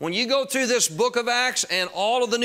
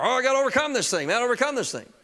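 frustrated self-talk; 3 semitones higher, faster than usual. Retold or imitated. Preacher retells battling nicotine by willpower, frustrated self-talk. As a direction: retell your own willpower struggle, pushing through quickly. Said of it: "I'm getting frustrated at myself".

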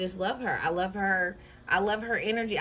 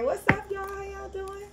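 much higher sing-song hello; high greeting; 11 semitones higher than usual. Real, not acted. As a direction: lift it up sweetly.

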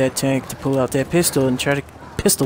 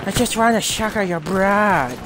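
mock Chinese vampire accent; 3 semitones higher than usual. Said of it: "he goes".

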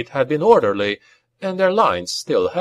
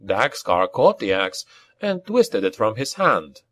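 ordinary delivery

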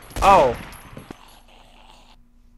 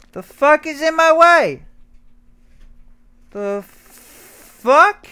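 louder, higher annoyed question; frustrated outburst; 10 semitones higher, 6 dB louder, slower than usual. Real, not acted. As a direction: snap at what blocks you. Blocked in game, repeats louder.

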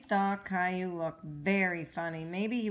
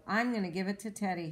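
happy smile; faster than usual. Acted. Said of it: "with a happy smile".

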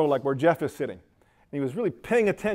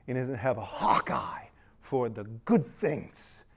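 hushed whisper; 3 semitones lower, 5 dB quieter than usual. Acted. Pastor whispering about God's eye for good. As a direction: whisper it, barely voiced.

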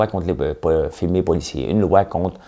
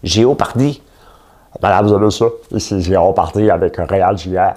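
mock announcer, louder; game show host; 4 dB louder than usual. Parodying the Jeopardy host to a contestant, loud announcer.

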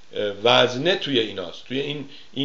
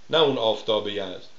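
ordinary talk, nothing marked

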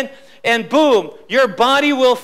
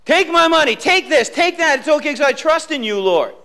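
Job's surrender; 3 semitones higher than usual. Acted. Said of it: "Now here Job is saying".

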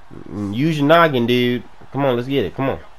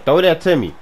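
raised-voice demand; insistent call; 4 dB louder than usual. Real, not acted. Open receiver asking for the pass, insistent call. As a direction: call out for the ball.

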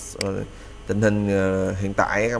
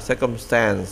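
American pronunciation. Shown as a demonstration. Teacher contrasts it with the American reading of circumstance. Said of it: "dòng Mỹ là".

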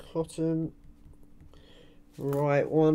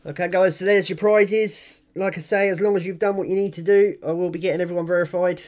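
hyped giveaway announcement; 3 semitones higher, 4 dB louder than usual. Real, not acted. Wrapping up the giveaway results.

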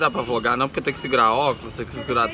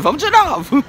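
calling out; 11 semitones higher, 4 dB louder than usual. Real, not acted. Calling group to ride again.

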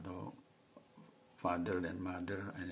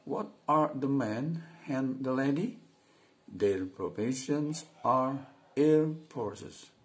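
slow, loud, careful reading aloud; model reading; 7 semitones higher, 8 dB louder, much slower than usual. Shown as a demonstration. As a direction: read it out slowly for the class. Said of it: "saya mulai lagi". (membaca lantang dan pelan untuk murid)

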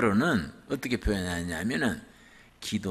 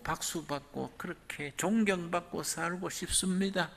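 earnest prayer; 5 semitones higher than usual. Acted. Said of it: "이 예수님의 기도예요".

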